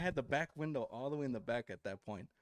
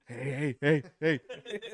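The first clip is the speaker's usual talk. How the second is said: scared hey; 5 dB louder, slower than usual. Retold or imitated. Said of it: "and then again".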